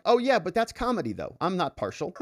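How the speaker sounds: mock juror. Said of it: "And they're like".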